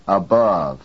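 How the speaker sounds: weak a, strong bove in ABOVE; stress on second syllable. Shown as a demonstration. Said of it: "The second".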